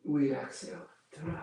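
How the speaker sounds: a soft whispered breath cue. Real, not acted. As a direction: breathe the word out under the breath. Cueing the exhale during the pose.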